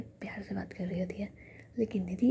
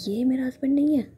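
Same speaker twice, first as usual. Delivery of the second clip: louder, pushed-up protest; indignant denial; 4 semitones higher, 8 dB louder than usual. Acted. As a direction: deny it hotly, voice jumping up.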